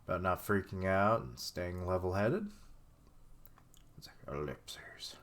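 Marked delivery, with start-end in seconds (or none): 4.0-5.2 soft, slow, breathy whisper; a whispered beat of silence; whispered ellipses. Real, not acted. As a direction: let it trail off under your breath. Wordless reaction voiced as ellipses.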